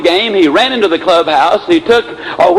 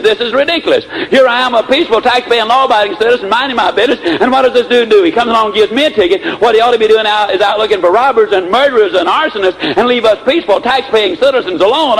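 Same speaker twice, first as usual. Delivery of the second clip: higher, indignant rant, only mildly heated; mock fury; 4 semitones higher than usual. Boss griping about his speeding ticket, mock indignation. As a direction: imitate an outraged citizen protesting unfair treatment. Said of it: "Mister B was absolutely furious".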